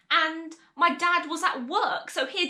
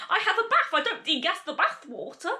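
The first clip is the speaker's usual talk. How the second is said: laughing through the words; faster than usual. Real, not acted. Vlogger retelling her childhood mistake, laughing.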